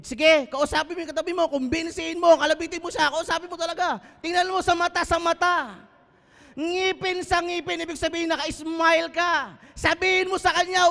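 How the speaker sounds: high, loud urging to the congregation; fiery preaching. Acted. Pastor urging the congregation to speak to their neighbour, loud and high. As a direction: push them to turn and talk to each other.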